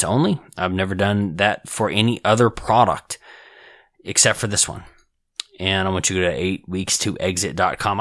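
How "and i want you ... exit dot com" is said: strained, tired voice; hoarse voice. Real, not acted. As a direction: voice going hoarse. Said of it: "I'm losing my voice".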